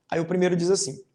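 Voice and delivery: ordinary talk, nothing marked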